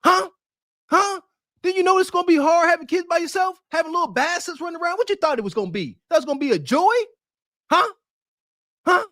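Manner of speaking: mock taunting. Mocking taunt at woman.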